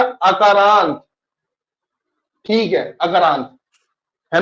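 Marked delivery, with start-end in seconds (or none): 0.0-1.0 slow, drawn-out term. Shown as a demonstration. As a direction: stretch अकारांत out slowly, syllable by syllable. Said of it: "तो ये भी क्या हो गया?". (अकारांत को धीरे-धीरे खींचकर बोलना)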